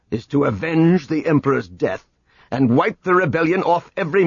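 cold and cutting, no warmth; cold fury. Acted. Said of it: "Tierce answered icily".

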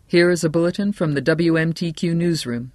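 lightly voiced radio newscaster; radio bulletin. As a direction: announce it like a breaking bulletin.

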